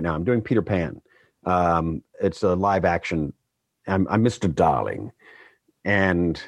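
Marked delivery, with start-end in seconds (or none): 3.9-5.1 English accent. Shown as a demonstration. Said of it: "that's not quite how I sound".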